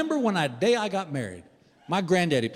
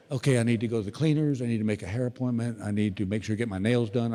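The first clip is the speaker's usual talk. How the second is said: wife thinking aloud; 6 semitones lower than usual. Retold or imitated. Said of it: "this is what I'll hear".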